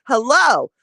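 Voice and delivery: loud, high mocking hello; sarcastic shout. To a silent cashier, a loud mocking shouted hello. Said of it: "so I'm going to shout it".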